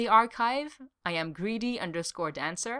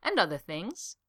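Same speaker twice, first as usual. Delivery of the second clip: sing-song glee. Acted. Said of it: "sounding almost sing-song with glee".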